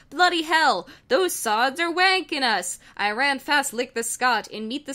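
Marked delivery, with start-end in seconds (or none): 0.1-2.8 higher, louder panicked Brit; a hint of a flustered British robot; mock panic with a British lilt; lightly voiced Wheatley. Wheatley curses under fire.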